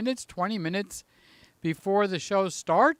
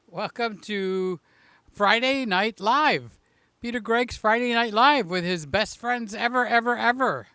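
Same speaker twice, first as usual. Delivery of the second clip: show host announcement; 3 semitones higher than usual. Acted. Host opening his Friday stream to friends, grandly announced. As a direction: roll out the show title like a TV host. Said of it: "announcing his show".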